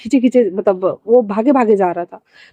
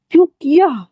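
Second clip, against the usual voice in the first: higher sharp demand; angry demand; 6 semitones higher than usual. A narrator's reading. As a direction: demand an answer from him. Mother scolds Wangji. (माँ का गुस्से भरा सवाल)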